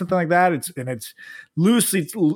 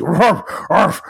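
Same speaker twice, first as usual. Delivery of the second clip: yappy chihuahua voice; 4 semitones higher, 4 dB louder, much slower than usual. Retold or imitated. Weirdo brother barking at dinner.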